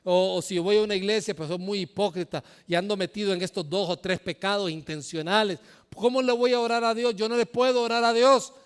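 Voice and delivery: unworthy sinner. Retold or imitated. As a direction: plead as one who feels too guilty to pray. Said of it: "Y dice". (pecador que se siente indigno, más agudo y fuerte)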